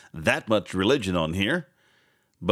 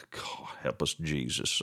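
whisper; 10 semitones lower, 10 dB quieter than usual. Real, not acted. Exasperated aside after news story.

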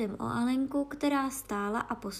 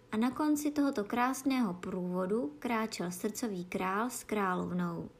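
ordinary delivery

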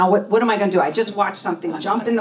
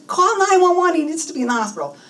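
insistent cry for help, pitched way up; urgent demand; 10 semitones higher, faster than usual. Retold or imitated. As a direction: order it forcefully, then rush the reason. Urgent order to the nurse.

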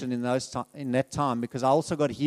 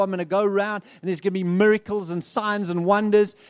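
higher, self-mocking boast of power; mock grandiose; 5 semitones higher, 3 dB louder than usual. Preacher mocking his younger self's dreams of power, grandiose. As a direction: puff yourself up, tongue in cheek.

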